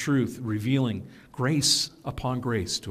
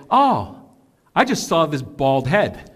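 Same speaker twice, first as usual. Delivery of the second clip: imitating churchgoer; 4 dB louder than usual. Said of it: "She would just say".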